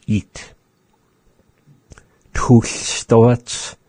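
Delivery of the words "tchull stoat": breathy model whisper; whispered phrase. Shown as a demonstration. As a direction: whisper Tchull stoat for listeners to copy.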